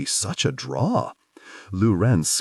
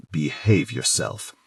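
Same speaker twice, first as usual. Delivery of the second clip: slow, low throaty command; deep throaty warning; 5 semitones lower than usual. Acted. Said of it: "His voice goes deep and throaty".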